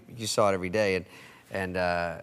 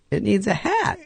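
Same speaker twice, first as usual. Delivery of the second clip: Farley deadpan; 9 semitones higher than usual. Retold or imitated. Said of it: "he goes".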